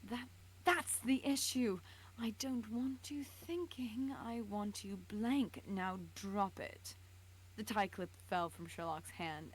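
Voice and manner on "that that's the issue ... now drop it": slow, whispered villain orders; menacing command. Acted. Vogel ordering Sherlock to go blank, slow whispered menace. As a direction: press him down with each word.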